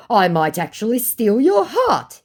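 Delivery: high, loud, drawn-out come-on; exaggerated quoted flirtation; mock flirting. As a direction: act out his chat-up line slowly and high. Acting out scammer's flirting.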